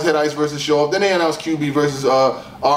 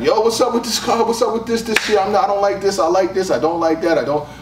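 higher, animated voice of a guy arguing cards; playing a fired-up fan at the barbershop; a fan in the barbershop complaining about the card, mock heated; barbershop chatter; 6 semitones higher than usual. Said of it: "these are the type of conversations we have".

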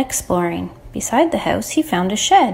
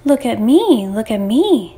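mild mock shout. Ma shows off her woolly blanket, mild shout. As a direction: call out with restraint, in an everyday pitch. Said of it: "she shouted".

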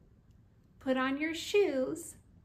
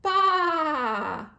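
loud, high bleating baa; sheep bleat; 4 semitones higher, 7 dB louder than usual. Shown as a demonstration. Teaching a toddler farm animals, a loud sheep bleat. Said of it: "Sheep says".

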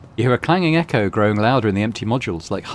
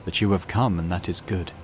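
lightly voiced monotone mutant priest; 2 semitones lower than usual.

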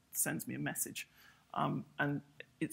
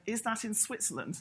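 a little scared; 6 semitones higher than usual. Retold or imitated. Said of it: "she sounded a little scared and said".

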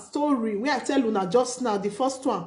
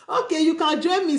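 laughing; 6 semitones higher than usual. Real, not acted. Laughs while inviting a caller.

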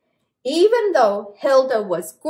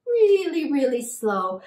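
slow like a turtle; 3 dB quieter than usual. Shown as a demonstration. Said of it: "how a turtle moves".

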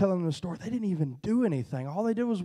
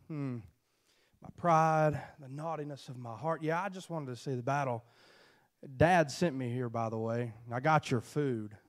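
meek little brother; 6 semitones lower, 6 dB quieter than usual. Acted. David answering brother meekly.

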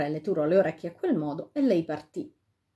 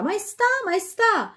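high, drawn-out call from nowhere; eerie calling voice; 13 semitones higher, 4 dB louder, slower than usual. A narrator's reading. Unseen voice calling the king from behind. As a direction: tempt him to turn round, slowly.

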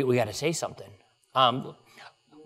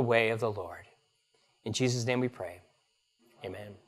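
prayer. Acted. Pastor leads evening prayer.

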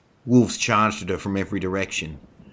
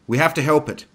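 raised, high insistent voice; urgent plea; 9 semitones higher, 7 dB louder, faster than usual. A narrator's reading. Dana urges Sebastian to save the white wolf, urgent plea. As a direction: insist loudly that action is needed.

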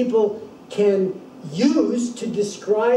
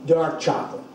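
light hesitant offer; mildly tentative guess; a little tentative. Shown as a demonstration. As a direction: say it gently, unsure. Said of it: "she says it a little tentatively".

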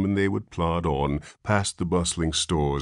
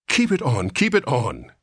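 loud, rushed repetition; hurried; 8 semitones higher, 4 dB louder than usual. A narrator's reading. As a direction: hurry to stop him. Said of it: "said Mister Button hurriedly".

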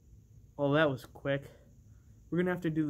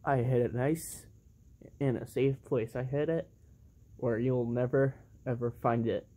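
sneaky villain voice; 5 semitones lower than usual. Pretend. Toy figure gloating over hidden belt.

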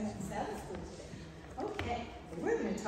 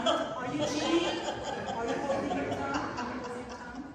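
laughing; 6 semitones higher, 4 dB louder than usual. Real, not acted. Teacher teasing child, laughing.

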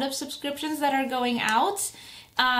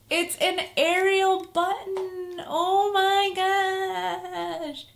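excited gush; 7 semitones higher, much slower than usual. Real, not acted. Favorite princess found.

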